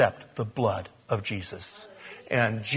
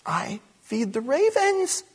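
much higher, slow, stately quote; voice of God; 11 semitones higher, slower than usual. Acted. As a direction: proclaim it slowly as God's own words. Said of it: "what he's bringing up here".

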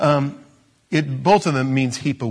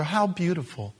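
sarcastic; 3 semitones higher, 3 dB quieter than usual. Acted. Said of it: "hear the sarcasm in my voice".

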